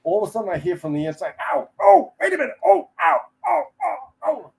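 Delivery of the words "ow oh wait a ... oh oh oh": high pained cries from behind the door; imitating a burned man crying out; pained yelps. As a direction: yelp in pain, pitched way up. Man burning inside, crying out.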